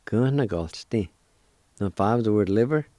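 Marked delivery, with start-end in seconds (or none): 0.1-1.1 "Gna Galstein" drawn out slowly; slow and careful. Shown as a demonstration. Teacher saying the whole word slowly for learners. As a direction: stretch every sound. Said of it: "like this".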